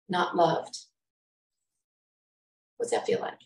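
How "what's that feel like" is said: breathy hushed question; whispered. Real, not acted. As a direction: drop to a pained whisper. Pained rhetorical question, whispered.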